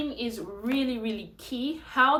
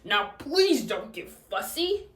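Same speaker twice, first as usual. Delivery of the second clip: dad voice; slower than usual. Shown as a demonstration. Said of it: "So I would say".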